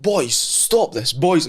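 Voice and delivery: a lightly voiced posh old man telling the boys off. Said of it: "so posh".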